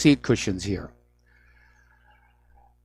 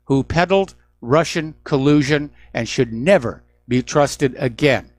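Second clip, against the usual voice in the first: "never" leaned on, "trusted again" slowed; stress on never. Shown as a demonstration. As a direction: punch "never", then drag out "trusted again". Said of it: "Emphasis on the word never".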